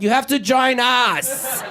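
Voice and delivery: slow, deliberate recruiting voice; slowly and menacingly invite him in; German shepherd gang. Retold or imitated.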